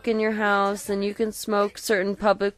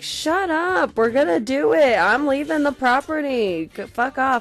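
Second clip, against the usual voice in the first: mock defiant retort; 4 semitones higher than usual. Retold defiant retort to prim coworker.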